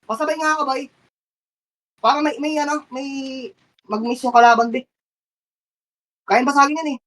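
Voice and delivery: high-pitched excited battle orders; frantic high shotcalling. Real, not acted. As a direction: drive the team through the fight. Team fight callouts.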